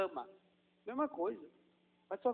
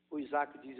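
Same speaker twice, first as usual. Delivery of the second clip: ordinary delivery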